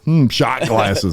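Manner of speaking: slow, pondering hmm; a light mock-scheming muse; musing thought. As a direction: mull it over like a new idea. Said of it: "He's thinking".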